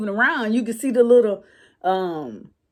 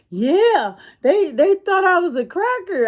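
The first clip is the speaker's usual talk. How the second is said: mimicking the kid; 8 semitones higher than usual. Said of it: "he was like".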